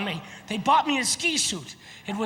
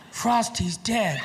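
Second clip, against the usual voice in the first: mock-tearful kid, drawn out; crying child; 3 semitones lower, slower than usual. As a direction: imitate a child crying the news slowly. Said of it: "walking up to me crying".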